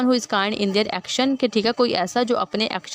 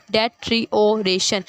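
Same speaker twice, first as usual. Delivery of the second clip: "डेट्रियोरेशन" lightly parted into syllables; divided syllables; slower than usual. Shown as a demonstration. Teacher repeating the division, "डेट्रियोरेशन" syllable by syllable. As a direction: keep "डेट्रियोरेशन" in distinct beats with short gaps. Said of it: "एक एक में divide होता गया".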